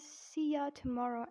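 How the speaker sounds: British-accent demo, R kept in tomorrow; British example phrase. Shown as a demonstration. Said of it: "In British accent".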